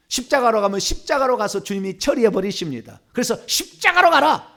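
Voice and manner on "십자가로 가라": high, slow banishing order; commanding. Shown as a demonstration. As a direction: intone the order with authority. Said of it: "이렇게 해도 되는 것이고".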